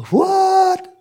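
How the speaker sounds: sudden high, loud shocked cry; an outraged onlooker's stunned "What?"; shocked disbelief. Pretend. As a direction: yelp it like you can't believe your eyes. Listener shocked at preacher's past.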